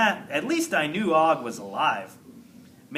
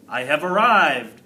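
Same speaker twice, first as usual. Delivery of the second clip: a touch of grand herald, a bit louder; grand announcement; 6 dB louder than usual. Acted. Janitor Aldo to the classroom, mock grand announcement. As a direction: announce your arrival with mock pomp. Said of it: "Aldo announced".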